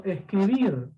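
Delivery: escribir with the final syllable drawn out; stress on last syllable. Shown as a demonstration. Teacher giving an aguda example, stress on BIR in escribir. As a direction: lean long on the end of escribir. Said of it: "fuerza de voz en la última".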